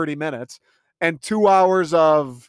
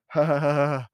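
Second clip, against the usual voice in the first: stoned writer. Acted. Stoned writer pitching the accent joke to the others, lightly mocked. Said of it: "Someone just high as balls being like".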